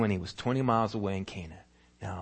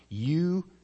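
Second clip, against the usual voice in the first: much softer, slow gentle reassurance; soft inner voice; 5 semitones lower, 7 dB quieter, much slower than usual. Acted. Holy Spirit whispering to the father's heart, soft and slow. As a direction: speak it softly like a voice inside. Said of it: "the Holy Spirit whispers in his heart".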